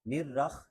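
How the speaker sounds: "نرخ" run together with scraped kha; wrong kha sound. Shown as a demonstration. Teacher shows learners the mistake, "نرخ" with kha. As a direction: end "نرخ" on a rough kh. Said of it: "ایک تو خا نہیں پڑھنا".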